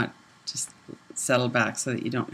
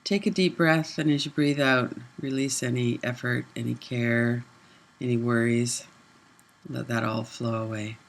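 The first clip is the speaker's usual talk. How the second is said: guided meditation. Real, not acted. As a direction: ease them into letting go on the out-breath. Leads a relaxing breath.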